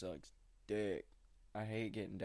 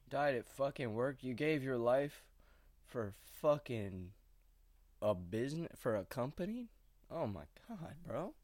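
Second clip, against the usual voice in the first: half-laughing outrage, pitched up; incredulous outrage; 4 semitones higher than usual. Real, not acted. Ranting to viewers about dying for a company, outraged.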